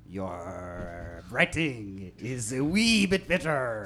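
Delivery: put-on French pirate accent. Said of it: "Are you a French pirate?".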